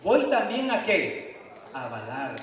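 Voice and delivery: slow, admiring wolf voice; wolf charmed by the bleating; slow, starry-eyed wolf; delighted wolf. Acted. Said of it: "Y el lobo dice".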